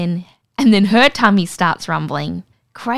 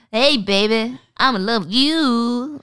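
mock seductive; 4 semitones higher, slower than usual. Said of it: "he's like".

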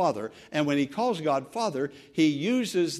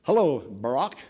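casual greeting; 3 semitones lower, 4 dB louder than usual. Pretend. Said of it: "and shake hands and say".

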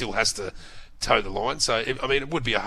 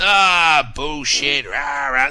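high, loud mock uproar of squabbling MPs; rowdy parliamentary heckling; 3 semitones higher, 7 dB louder, much slower than usual. Radio panellist mimicking MPs in Question Time, rowdy mock heckling. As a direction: heckle like naughty schoolkids, pitched up and loud. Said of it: "naughty school children, just, uh, talking over each other".

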